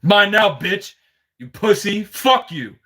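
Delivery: high-pitched mimicked jeering; gloating taunt. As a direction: act out a winner rubbing it in. Acting out the winner's gloating.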